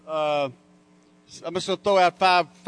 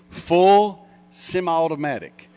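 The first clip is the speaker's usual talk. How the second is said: slow, ominous mock-scary phrase; mock terrifying; 2 semitones higher, slower than usual. Speaker mocking the media's scary phrase, slow and ominous. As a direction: drag it out as if it were a horror title. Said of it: "that terrifying phrase".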